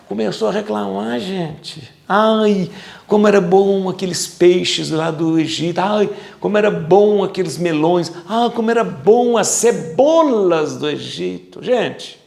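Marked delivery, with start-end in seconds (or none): 2.1-11.6 sighing, dreamy mock longing; mock nostalgic sigh. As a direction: swoon over the food of Egypt. Voicing longing for Egypt food.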